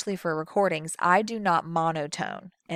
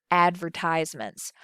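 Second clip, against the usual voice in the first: put-on Southern accent. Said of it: "I leaned over and went".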